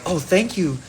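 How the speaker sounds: high, sugary imitation of grateful fans; climbing into a squeaky fawning voice; gushing mock fan. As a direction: gush in a mocking high voice, drawing out the end. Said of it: "they're like".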